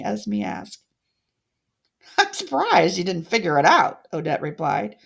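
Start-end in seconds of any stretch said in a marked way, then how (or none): 2.2-4.1 mocking villain. Odette mocking Esme.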